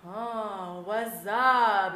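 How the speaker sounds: drawn-out mock-friendly hello; fake friendly greeting. Host greets late friend, falsely friendly.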